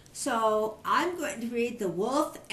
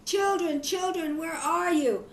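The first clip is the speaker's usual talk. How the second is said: frightened calling; 6 semitones higher than usual. Acted. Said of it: "The poor frightened mother called".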